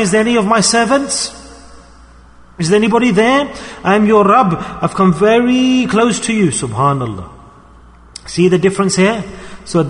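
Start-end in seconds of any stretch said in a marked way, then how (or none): 0.0-6.5 raised-pitch retold call to the faithful. Allah calling to his servants at night, calling out. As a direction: call out higher, without shouting. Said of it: "calling out".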